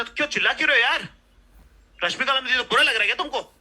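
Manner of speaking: hammed-up jealous partner; mock accusation. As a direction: fire the questions at him. Girlfriend voiced accusing.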